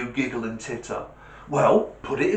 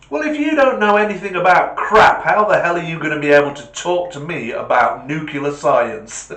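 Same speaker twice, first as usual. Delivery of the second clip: triumphant punchline; 5 semitones higher, 8 dB louder than usual. Acted. Punchline delivered by the speaker.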